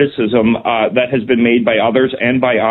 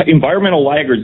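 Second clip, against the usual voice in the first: lightly sarcastic, pitched a little higher; 4 semitones higher than usual. Real, not acted. Minister mocking a label put on countries like Germany, lightly sarcastic. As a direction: say the label with mild, dry sarcasm. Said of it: "and I say that sarcastically".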